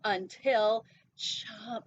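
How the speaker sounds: slow, loud predator snap; dramatic chomp. Acted. Shark pounces on prey.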